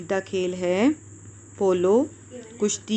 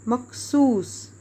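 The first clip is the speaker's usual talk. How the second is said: slow dictation; 2 semitones higher, much slower than usual. Shown as a demonstration. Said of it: "یہ سواد دو بار آئے گا".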